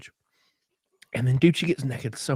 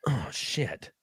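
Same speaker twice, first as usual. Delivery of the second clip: mock moan; 9 dB quieter than usual. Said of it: "in the same cadence that I'm making right now in my parody".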